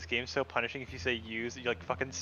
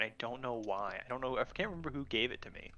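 trailing off into a whisper; whispered aside; 8 dB quieter than usual. Real, not acted. Friend muttering to himself while remembering the cider. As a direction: drop to a breathy whisper mid-story. Rambling college apple cider story.

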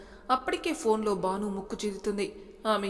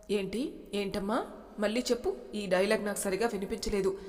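very serious. Acted. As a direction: dare her to repeat it. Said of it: "చాలా సీరియస్గా అడిగాడు". (భార్యను మళ్ళీ చెప్పమని గంభీరంగా బెదిరిస్తూ)

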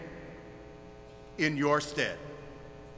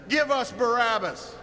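slightly raised mock mob cry; crowd's cry; 3 semitones higher than usual. Preacher imagining a voters' assembly against Jesus, crying out. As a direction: echo the crowd's demand, moderately lifted. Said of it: "crying that very thing".

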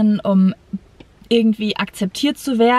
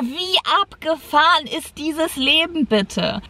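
amazed wonder; 5 semitones higher than usual. Retold or imitated. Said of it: "denk mir so".

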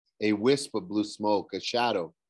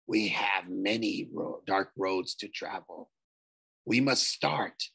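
low, pleased ghostly voice; 3 semitones lower than usual. A narrator's reading. Ghost agrees to Nico's plan, pleased and ghostly. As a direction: sound satisfied.

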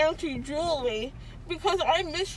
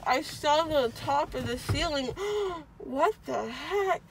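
groggy from anesthesia; 3 dB quieter than usual. Real, not acted. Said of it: "My face is numb".

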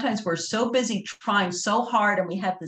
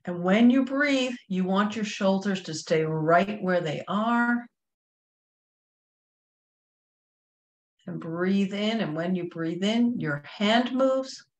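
slow, measured meditation guide with long pauses; guided breathing meditation. Real, not acted.

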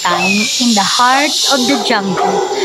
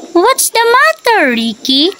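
caring; 8 semitones higher than usual. Acted. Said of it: "asked Ellie with a caring tone".

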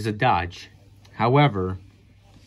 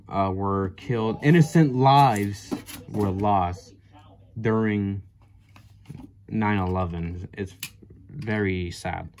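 sombre; 2 semitones lower than usual. Real, not acted. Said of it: "I want to take this moment to be serious".

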